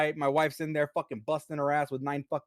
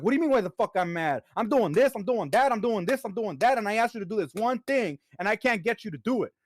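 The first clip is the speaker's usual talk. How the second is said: raised pitch, rattling off the list of complaints; wife's exasperated rant; 5 semitones higher than usual. Retold or imitated. Husband voicing his wife's complaint about chores, exasperated and higher. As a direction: play the fed-up wife, higher and exasperated. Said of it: "She's like".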